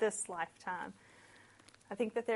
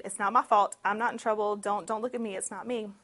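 defensive; 7 dB louder, faster than usual. Retold or imitated. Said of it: "passing the blame, saying".

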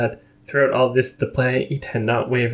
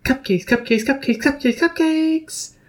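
growing louder. A narrator's reading. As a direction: start near, swell louder each time. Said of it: "voice grew louder".

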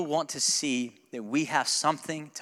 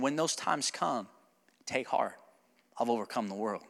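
gentle quoting; 5 semitones lower, 5 dB quieter than usual. Retold or imitated. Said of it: "He's saying".

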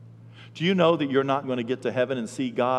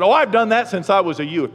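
higher, louder boastful reply; smug young man; 6 semitones higher, 8 dB louder than usual. Retold or imitated. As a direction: brag like a smug youth. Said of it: "he said".

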